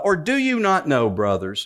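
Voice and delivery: lightly voiced southern apostle; a touch of southern Paul. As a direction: quote Paul with a hint of the southern accent. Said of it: "And so he says".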